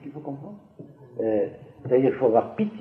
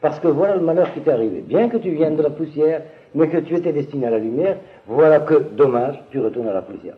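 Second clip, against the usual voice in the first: tout autre accent. Shown as a demonstration. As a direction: read it as a regret, falling away at the end. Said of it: "l'accent est tout à fait autre". (ton de regret, en appuyant sur « dommage »)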